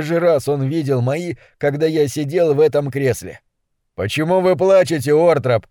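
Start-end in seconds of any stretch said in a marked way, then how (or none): 3.9-5.7 rough, harsh question. Acted. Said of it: "спросил я грубо".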